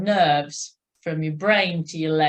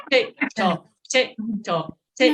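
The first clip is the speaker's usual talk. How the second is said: regular metronome tick-tock; brisk cadence count; 2 semitones higher than usual. Shown as a demonstration. Coach repeats the beat for riders, brisk cadence count. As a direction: beat out a brisk, even rhythm. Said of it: "You want it again?".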